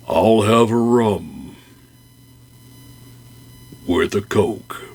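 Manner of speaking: slow, halting bear voice with long gaps; slow pausing bear. Acted. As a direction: drag each word out like a glum bear. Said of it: "the tone of his voice and this pausing".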